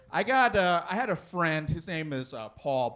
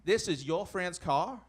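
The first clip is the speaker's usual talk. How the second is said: Stetson-wearing lawman. Acted. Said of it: "He's like".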